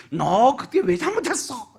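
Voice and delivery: a slow, mock-stern question from above; Jesus scolding in a dream. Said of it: "이렇게 하셨나요?".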